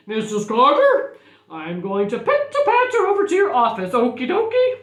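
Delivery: lightly acted loud phone call; a hint of a jaunty principal; principal phoning.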